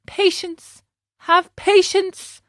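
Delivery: lonely donkey pleading with himself; high plaintive plea. Acted. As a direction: stretch it out, begging himself. Pinocchio consoles himself.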